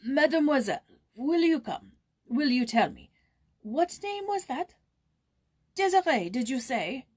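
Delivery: loud, high, urgent calls; urgent calling. Acted. Old man calling Joyce from next room, loud and urgent. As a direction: call out to her, shaken.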